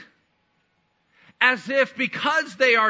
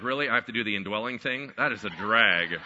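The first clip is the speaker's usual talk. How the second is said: Holy Spirit; 10 semitones lower, 4 dB quieter than usual. Acted. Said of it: "then the Holy Spirit is like".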